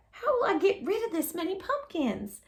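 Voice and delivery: dismayed cry. A narrator's reading. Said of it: "she cried".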